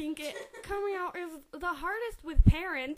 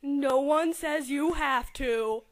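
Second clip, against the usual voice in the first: reassuring; 3 semitones lower, 5 dB louder, slower than usual. Acted. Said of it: "The facilitator reassured him".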